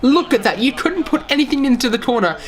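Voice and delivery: thrilled look-at-that; excited. Real, not acted. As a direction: marvel at the top-bins finish. Showing replay goal.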